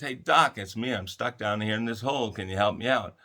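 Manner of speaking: mock shout up to the doctor passing by; man stuck in a hole hails the doctor, calling out; calling up for help.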